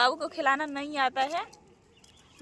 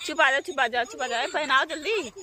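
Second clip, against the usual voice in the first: lulling. Real, not acted. Hushing baby repeatedly. (लल्ला को धीमे लोरी जैसे चुप कराना)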